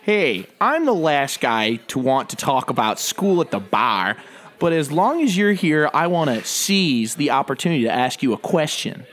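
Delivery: slow, condescending Harvard snob; smug preppy voice. Acted. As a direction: talk down to him slowly. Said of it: "Harvard preppy douchebag".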